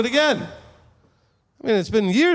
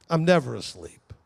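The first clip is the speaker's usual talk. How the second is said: calm reply; 5 semitones lower than usual. Acted. Yeshua's composed answer to panic.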